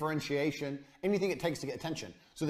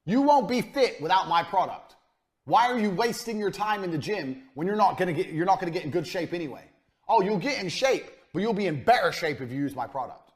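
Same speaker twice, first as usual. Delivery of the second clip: hard sales pitch; 4 semitones higher, 5 dB louder than usual. Retold or imitated. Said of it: "you need to say to people".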